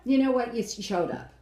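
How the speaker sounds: high, loud exasperated opener, then settling; mock frustrated judge. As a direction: imitate a judge giving up on praise. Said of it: "He is so frustrated".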